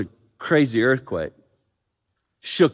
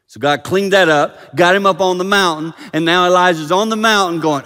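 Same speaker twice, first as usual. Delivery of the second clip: raised, loud storytelling from the pulpit; energetic preaching; 8 semitones higher, 10 dB louder than usual. Real, not acted. Preacher telling Elijah's story to congregation, energetic preaching. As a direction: drive the story on, loud and high.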